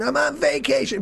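McClane parody. Retold or imitated. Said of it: "He's going".

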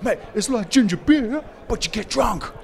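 high, laughing quote of mates; laughing Aussie mate. Retold or imitated. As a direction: say it through a laugh, amused.

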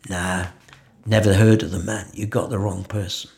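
low, soft brush-off; offhand retold denial, dropping away at the end; dismissive denial. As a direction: play it down, quietly denying all knowledge. Acted denial to a challenger.

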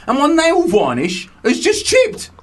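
prissy mimic of the email writer; mocking a posh listener. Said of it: "It's a piss take".

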